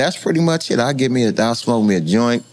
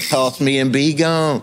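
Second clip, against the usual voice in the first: slow, deliberate gun's voice; 3 semitones higher, slower than usual. Retold or imitated. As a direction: speak slowly as the talking gun. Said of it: "the gun talking to him".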